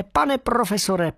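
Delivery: high, drawn-out squeaky call. Acted. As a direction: stretch the name out, still squeaking. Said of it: "pískal jsem o sto šest".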